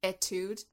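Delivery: Etude with a short "eh" opening, questioning; "eh-tood" pronunciation. Shown as a demonstration. Checking the song title's pronunciation with co-host, "eh-tood" Etude. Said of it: "Is that how you say it?".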